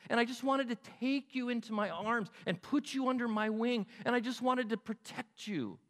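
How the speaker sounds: high-pitched, yearning protectiveness; emotional longing. Acted. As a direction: plead with tender, aching love. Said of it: "Do you not hear emotion there?".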